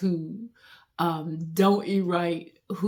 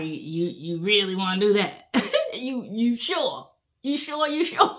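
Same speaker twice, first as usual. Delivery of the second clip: skeptical organ. Acted. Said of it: "The internal organ like".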